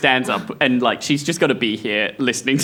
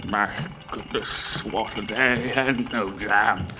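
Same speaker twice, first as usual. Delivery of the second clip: put-on old butler; 2 semitones lower, 5 dB quieter, slower than usual. Struggling old butler mutters.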